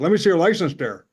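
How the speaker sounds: cop with a lightly put-on Wisconsin accent. Wisconsin cop pulling the comic over for speeding, Wisconsin accent. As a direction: play a Wisconsin traffic cop's accent. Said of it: "he's got the Wisconsin accent".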